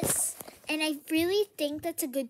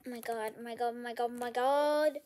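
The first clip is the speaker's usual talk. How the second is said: shocked; 4 semitones lower than usual. Real, not acted. Shocked repeating.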